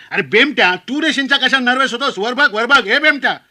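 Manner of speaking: high, insistent heckling shout; high-pitched badgering uncle; uncle's scolding yell. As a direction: yell at the nervous groom across the feast. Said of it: "भर पंक्तीत पुन्हा ओरडला".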